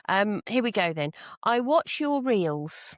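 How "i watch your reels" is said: posh lady voice. Acted. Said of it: "In your best posh lady voice".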